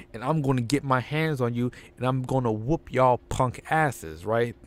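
lightly voiced angry wrestler; a hint of fed-up champ; Booker T promo. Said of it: "Booker T comes out and says".

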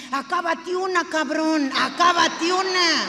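loud, slow, hammering acábate una; emphatic demand. Real, not acted. Comedian to cheating men in the audience, hammering the point. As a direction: stress both acábate una.

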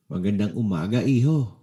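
put-on a bright, cheerful hello to a boy; cheerful greeting. The doctor greets young Mark, cheerful. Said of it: "Masayang bati ng doktor".

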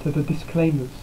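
glitchy robotic capture voice. Real, not acted. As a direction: voice distorted like a robot. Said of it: "my voice is all roboty again".

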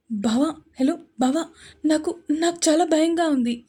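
put-on girl crying for help on the phone. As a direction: sob it out to her cousin. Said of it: "ఏడుస్తూ".

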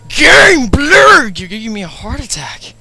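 high, loud frightened outcry; panicked cry. Real, not acted. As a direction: yelp in real fright. Jump scare in horror game.

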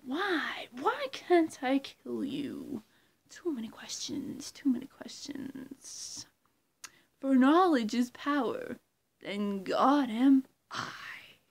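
slow villain lines with whispered menace; Riddler impression. Riddler impression, slow and menacing with whispers. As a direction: hiss the questions, then boast. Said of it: "that's my impression of Riddler".

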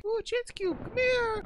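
very high excited call; excited squeal. Real, not acted. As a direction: squeal at the cube to come. Excited to spot chance cube.

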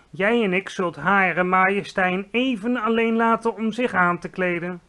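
gentle giant announcing politely; friendly giant. Acted. Giant tells the Queen he and Sophie will leave.

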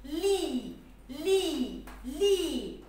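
لي with a long ee, repeated evenly; syllable sound demo. Shown as a demonstration. Teacher showing the sound of lam kasra, drawing out لي. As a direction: chant لي as a stretched syllable, falling each time. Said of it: "صوتها ايه؟".

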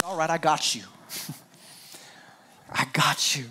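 soft, half-whispered comfort; quietly comforting a friend; gentle reassurance. Retold or imitated. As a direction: reassure him tenderly. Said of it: "Jesus says".

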